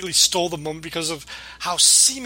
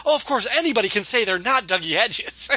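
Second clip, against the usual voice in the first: sarcastic yelling; 4 semitones higher than usual. Retold or imitated. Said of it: "he's screaming at him".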